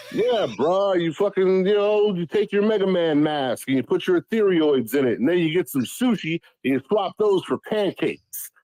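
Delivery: a hint of a rambling bro, tossed off casually; Skrilla's garbled pitch. Imitating a friend's confusing crypto pitch, lightly voiced bro. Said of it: "So here's how it sounded to me".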